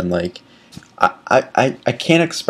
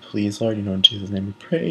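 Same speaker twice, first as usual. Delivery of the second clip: hushed prayer; 2 semitones lower, 7 dB quieter than usual. Retold or imitated. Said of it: "I'm, like, praying".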